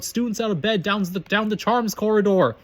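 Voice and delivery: high, drawn-out alarm call; acted poltergeist calling down a corridor; bellow. A narrator's reading. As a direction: bellow it high, slowing to the end. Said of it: "Peeves bellowed".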